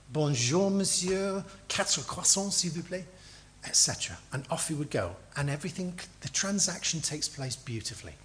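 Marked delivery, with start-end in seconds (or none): 0.1-3.1 courteous, lightly lilting French request; polite French greeting. Acted. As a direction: ask politely, pitch lifted then dropping at the end. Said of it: "the culture in France is you are polite".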